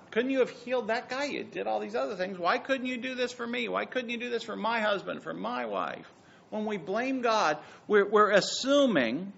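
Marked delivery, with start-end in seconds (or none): 0.1-6.1 mock complaint to God.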